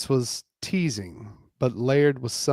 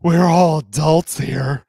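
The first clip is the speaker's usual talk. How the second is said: playful coaxing; 4 semitones higher, 10 dB louder than usual. Acted. Justine coaxing group.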